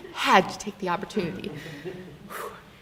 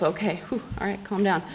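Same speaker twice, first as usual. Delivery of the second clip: softer, shaky self-soothing with a whew; calming myself down; 6 dB quieter than usual. Retold or imitated. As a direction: breathe out and talk yourself calm. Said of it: "after about five seconds of".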